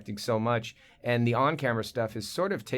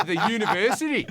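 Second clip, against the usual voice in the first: higher-pitched put-on Australian, drawing out UNIVERSITY; Australian accent; 8 semitones higher, 3 dB louder than usual. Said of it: "You just say".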